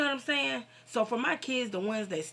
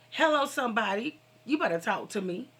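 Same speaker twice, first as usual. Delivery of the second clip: higher, louder church-style call-out; calling for a response; 3 semitones higher, 5 dB louder than usual. Real, not acted. Vlogger testifying to her viewers, calling out for a response. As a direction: call out for an amen from the listeners.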